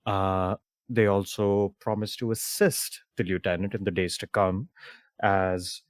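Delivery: measured storytelling with pauses for effect; game master's recap. Real, not acted. Host recaps the adventure for players, narrating style. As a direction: narrate the story so far, leaning on key words.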